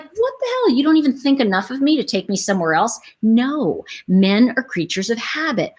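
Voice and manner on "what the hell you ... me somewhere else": indignant. Retold or imitated. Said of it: "She's like".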